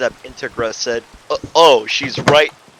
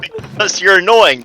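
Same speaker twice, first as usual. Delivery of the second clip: snapped; 5 semitones higher than usual. Acted. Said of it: "Sayora snapped".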